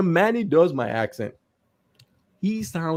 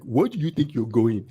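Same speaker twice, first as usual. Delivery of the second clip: lightly exaggerated Nigerian accent; mimicked Nigerian accent; 2 semitones lower than usual. Showing how his friend mimics him, Nigerian accent. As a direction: imitate a friend's take on your Nigerian accent. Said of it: "Manny does my accent like this".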